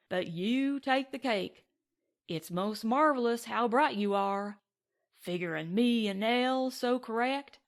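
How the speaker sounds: mock the Duke with heavy scorn; sarcastic gunman needling the Englishman; sarcastic cowboy. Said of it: "expressed extreme sarcasm".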